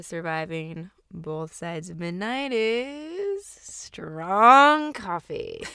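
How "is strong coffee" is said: whisper. Acted. Podcast tagline punchline.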